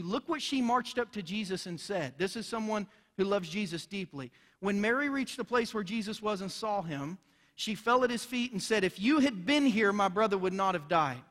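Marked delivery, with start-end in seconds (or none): 4.6-11.2 louder, rising accusation in Mary's words; accusing. Acted. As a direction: read it as a charge, not a sad line. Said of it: "That is not a question. That's an accusation".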